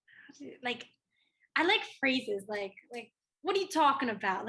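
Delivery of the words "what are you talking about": light Jersey-New York accent; a touch of Jersey in the vowels. Shown as a demonstration. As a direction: say it like a New Yorker. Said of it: "New York accent".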